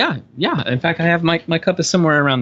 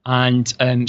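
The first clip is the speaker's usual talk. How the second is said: light Scottish brogue. Shown as a demonstration. Actor showing off a brogue on request, Scottish accent. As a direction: speak with a back-of-the-throat Scottish accent. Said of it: "Do a brogue".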